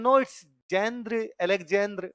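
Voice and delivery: Russian correction. Retold or imitated. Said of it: "वो कहता है".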